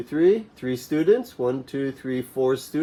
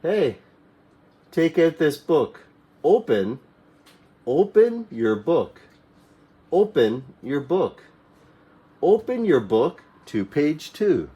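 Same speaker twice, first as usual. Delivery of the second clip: teacher's classroom command; 3 semitones higher than usual. Shown as a demonstration. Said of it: "the teacher may tell you".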